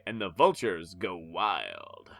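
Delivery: whispered comic narration. Acted. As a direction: breathe the line out in a whisper.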